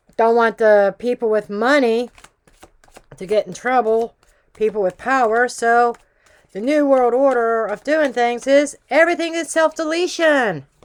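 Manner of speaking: loud, heavily sarcastic tone. Commenting on what just popped up, in a sarcastic tone. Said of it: "Note my sarcastic tone".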